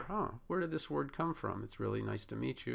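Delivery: curious and delighted to meet the word; genuine curiosity. Pretend. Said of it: "you wanna have a genuine curiosity".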